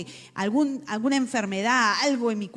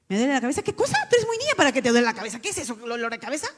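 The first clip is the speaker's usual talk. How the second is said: quick scornful mother; mother scolding; 5 dB louder, much faster than usual. Retold or imitated. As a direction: brush off the child's complaint fast. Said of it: "me decía mi mamá". (madre que regaña con desdén)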